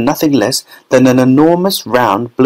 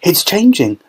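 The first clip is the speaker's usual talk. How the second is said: shouted; 7 semitones higher than usual. A narrator's reading. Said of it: "shouted Violet".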